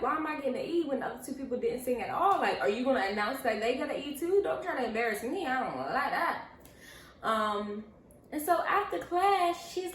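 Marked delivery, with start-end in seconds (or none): 0.0-6.5 fast, loud retold protest; indignant argument. Student arguing with the teacher over a grade, indignant rant. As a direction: fire off complaints in a quick, loud rush. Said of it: "going a little back and forth with her".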